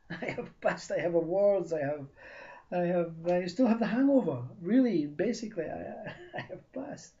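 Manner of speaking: indignant protest. Acted. Applicant protesting to the interviewer, laughing in disbelief. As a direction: protest that he has passed.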